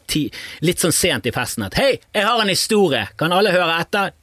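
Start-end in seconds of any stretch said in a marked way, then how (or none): 1.8-4.2 high-pitched call for everyone's attention; mock party shout. Guest announcing a story late at a party, mock shout. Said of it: "så bare roper du ganske høyt".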